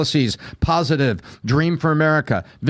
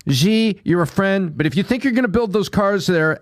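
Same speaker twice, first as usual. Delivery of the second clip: imitating Trump; 4 semitones higher than usual. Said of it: "all Trump was saying".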